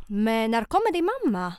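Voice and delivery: put-on a light Finnish accent on the driver's question; Finnish-accented taxi driver. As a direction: imitate a Finnish-Swedish cab driver with a mild accent. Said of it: "nu hade jag typ finsk dialekt".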